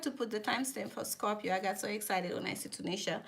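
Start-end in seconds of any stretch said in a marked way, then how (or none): 1.5-3.2 laughing. Real, not acted. Laughing while telling excitement.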